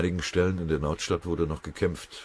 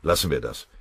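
hesitant; 3 semitones higher, 6 dB louder than usual. A narrator's reading. Sergeant reluctant to share his crazy idea, hesitant. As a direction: begin haltingly and brush the idea aside. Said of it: "Pfennigbauer zögerte".

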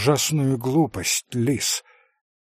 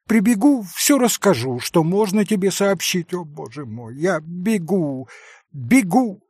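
flustered rush; 4 semitones higher than usual. Acted. Mother rushing off flustered.

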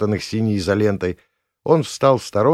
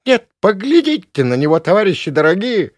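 much higher, loud appeal to the crowd; outraged old woman; 11 semitones higher, 7 dB louder than usual. Acted. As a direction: throw up your hands in outrage. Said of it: "всплеснула она руками". (возмущённо, на публику)

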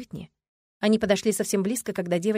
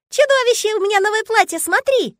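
put-on very high, loud delighted child's cry; a child bursting to show off; excited little girl; 10 dB louder than usual. Girl showing her new dress to father, excited.

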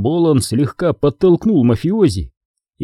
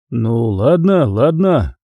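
conciliatory; slower than usual. Acted. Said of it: "примирительно ответил Болон".

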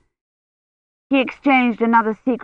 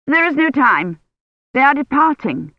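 put-on higher, curt old noblewoman; stern old lady; 7 semitones higher than usual. A narrator's reading. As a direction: cut her off impatiently. Imeyne's voice in story.

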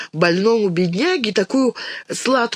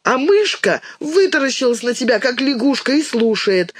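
put-on higher, fussy childish complaint, raised voice; excited capricious shouting; 6 semitones higher than usual. A narrator's reading. Dinka complains to Goga about her sister, higher and whining. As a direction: whine at her brother like a spoiled little girl. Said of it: "возбуждённо и капризно кричала Динка".

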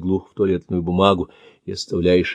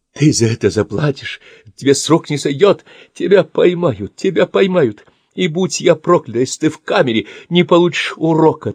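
furious threats; 8 semitones higher than usual. Acted. Old man threatening attacker.

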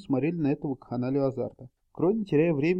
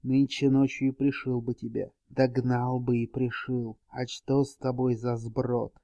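hissing witcher voice; 2 semitones lower than usual. Acted. Witcher mocks knight.

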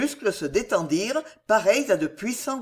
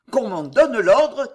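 loud, high, drawn-out demand; cried out; 4 semitones higher, 7 dB louder, slower than usual. A narrator's reading. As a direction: cry out for the order, slow and forceful. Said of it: "cria Maurevert". (cri fort et appuyé)

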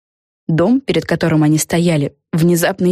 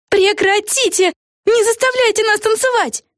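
mild mock cry out. A narrator's reading. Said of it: "кричали они".

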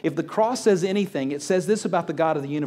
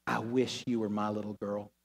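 soft and low, almost a whisper; tender whisper; 6 semitones lower, 8 dB quieter than usual. Retold or imitated. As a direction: breathe it gently into her ear. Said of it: "When she whispered in my ear".

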